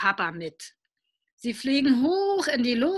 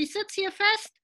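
higher, louder, slow pleading; panicky child; 7 semitones higher, 5 dB louder than usual. Acted. Boy pretending to be trapped, pleading loudly for the saw. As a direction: beg for the saw in mock panic. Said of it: "schreit Willi".

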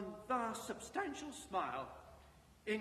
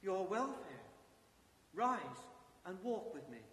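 calm ghost voice. Acted. Ghost commands Scrooge.

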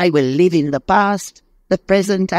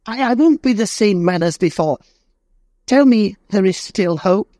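put-on much higher, desperate begging old man; pleading in despair; 11 semitones higher than usual. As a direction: plead for your life on your knees. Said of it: "trembling; fell on his knees".

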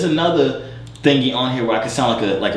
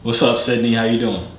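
echoey voice changer. Real, not acted. Greeting Sydney through a robotic echo filter. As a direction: talk through a booming echo effect. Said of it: "listen to his mic".

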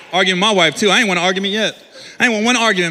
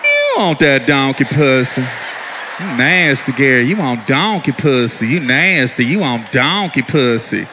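low, slow, calm wife taunt; wife's low calm taunt; 9 semitones lower, slower than usual. Retold or imitated. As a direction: calmly chant it low and slow. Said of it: "She said it like a thousand times".

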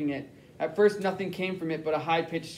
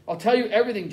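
yelled; 3 semitones higher, faster than usual. Acted. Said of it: "Jack yelled".

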